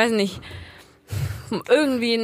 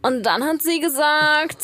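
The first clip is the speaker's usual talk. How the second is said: vocal fry; 5 semitones higher, slower than usual. Shown as a demonstration. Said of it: "was zum Beispiel die Kardashians ganz krass machen".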